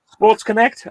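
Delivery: title words in reverse order; backwards speech. Shown as a demonstration. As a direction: read the title back to front. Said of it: "see if I can do more backwards".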